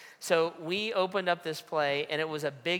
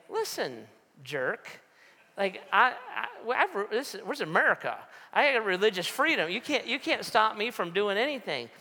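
angry retort; 6 semitones higher than usual. Retold or imitated. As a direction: push back hard at the fire marshal. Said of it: "I started to argue with him".

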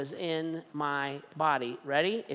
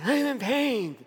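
whiny; 7 semitones higher than usual. Retold or imitated. Retold complaint to wife.

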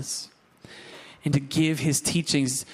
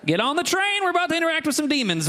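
excited; 12 semitones higher, faster than usual. Real, not acted. Preacher hyping up the congregation.

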